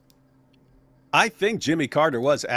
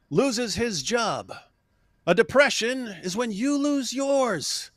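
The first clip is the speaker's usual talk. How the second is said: Reagan impression; 9 semitones higher than usual. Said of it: "Ronald Reagan goes".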